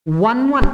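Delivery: वन वन said as two separate digits, not इलेवन; one one, not eleven. Shown as a demonstration. Teacher shows students to read वन वन as two separate digits. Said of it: "इलेवन नहीं पढ़ेंगे".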